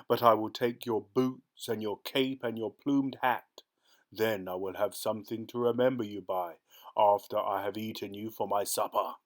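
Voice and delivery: a hint of a hungry ogre threatening; menacing ogre. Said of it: "he growled".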